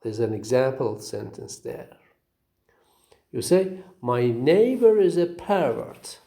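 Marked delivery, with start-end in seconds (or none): 4.0-6.2 "pervert" said PER-vert, falling off after the first syllable; stress on first syllable. Shown as a demonstration. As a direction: noun "pervert", weight on PER. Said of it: "have the first syllable as the stressed".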